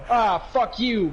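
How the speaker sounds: slow mock jab at a friend; joking jab. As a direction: throw it out as a friendly dig. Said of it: "kind of jab thing at me".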